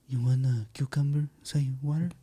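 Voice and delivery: lightly imitated soft-spoken waiter; low-talking waiter. Waiter offering cucumber to a customer, low and soft. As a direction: offer it under your breath, as a waiter. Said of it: "he's talking like that, low".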